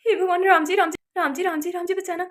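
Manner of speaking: repeated plea fading to a murmur; frightened prayer. Acted. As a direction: pray under your breath for protection. Frightened prayer before turning round.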